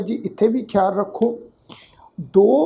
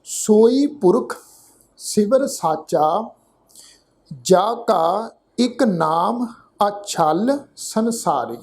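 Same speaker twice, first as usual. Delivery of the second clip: slow, drawn-out verse; measured Gurbani recitation; scripture recitation; much slower than usual. Shown as a demonstration. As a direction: recite word by word with long vowels. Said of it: "ਉਚਾਰਨ ਕਰਦੇ ਆ ਜੀ".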